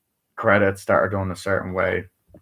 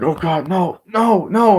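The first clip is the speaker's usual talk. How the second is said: rising higher and louder into a squeal; mock panic climbing high and loud; building mock panic; 10 semitones higher, 5 dB louder, slower than usual. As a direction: escalate the no's into a yelp.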